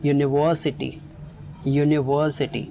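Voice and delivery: "यूनिवर्सिटी" with the weight on "वर"; stress on VER. Shown as a demonstration. Teacher models "यूनिवर्सिटी", stress on "वर". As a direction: lean on the middle "ver" in "यूनिवर्सिटी". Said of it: "ई पर stress है".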